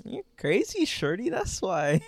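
Toronto accent imitated, high pitch on crazy; a mock Toronto guy brushing a girl off; hammed-up high Toronto slang delivery. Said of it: "He was like".

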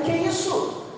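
bem agudo e incrédulo; espanto incrédulo. Retold or imitated. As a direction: pergunta de quem não acredita no que ouviu. Espanto do pregador. (espanto agudo)

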